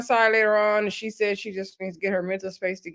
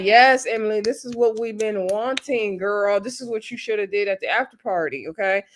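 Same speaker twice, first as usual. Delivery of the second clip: cheering. Retold or imitated. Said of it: "I was like".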